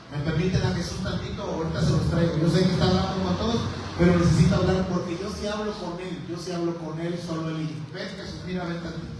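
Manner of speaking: a pushy friend whispering "just a sec"; lightly voiced Peter asking for a private word; Peter pulling Jesus aside.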